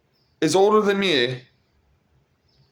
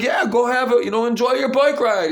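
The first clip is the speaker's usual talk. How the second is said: excited reply; 8 semitones higher than usual. Retold or imitated. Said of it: "I'm like".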